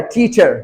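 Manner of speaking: टीचर with an aspirated English T. Shown as a demonstration. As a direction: puff the opening T of टीचर. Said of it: "वो ट टीचर का होता है".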